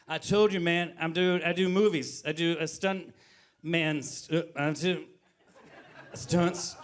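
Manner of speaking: halting, tipsy self-explanation; drunk buddy. Retold or imitated. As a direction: stumble over the words like a drunk. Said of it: "I was pretty hammered".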